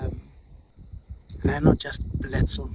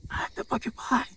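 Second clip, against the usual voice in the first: soft, higher, secretive voice; hushed porcupine; 8 semitones higher, 7 dB quieter than usual. Acted. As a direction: announce yourself without alerting the lions. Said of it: "he doesn't want to say it loud".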